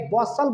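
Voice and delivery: बसल with the T left silent. Shown as a demonstration. Teacher models a word for pupils, silent T. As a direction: say बसल with no T sound, just an S. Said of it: "ये टी आपका silent है".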